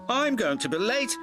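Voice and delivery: high, mildly upset little engine; a touch of distress; crying out. A narrator's reading. Percy stuck at the signal, mildly upset. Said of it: "he cried".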